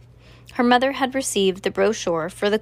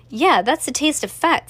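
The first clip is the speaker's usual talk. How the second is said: knowing; 6 semitones higher, 3 dB louder than usual. A narrator's reading. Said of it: "said Cass knowingly".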